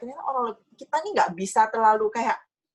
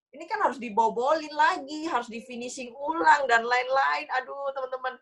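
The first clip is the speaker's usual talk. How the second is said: higher-pitched mock complaint; retold grumbling; 5 semitones higher than usual. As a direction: grumble lightly about all the extra work. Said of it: "jangan ngomel ya". (menirukan omelan ringan dengan nada lebih tinggi)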